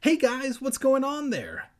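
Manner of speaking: high, loud aunt voice; ringing high-pitched holler; Aunt Dee calling. A narrator's reading. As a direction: call out brightly to another room. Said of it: "Aunt Dee's voice rang through the basement".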